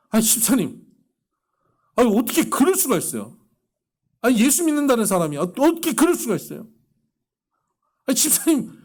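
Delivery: high, loud indignant shouting; angry outburst. Retold or imitated. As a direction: replay the pastor's own fury on the phone. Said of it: "듣는 저도 화가 나는 거예요". (높고 크게 분개하며 따지는 목소리)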